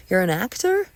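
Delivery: pointed, sceptical lift; disdainful question. Acted. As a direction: question the job with open doubt. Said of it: "say it like that".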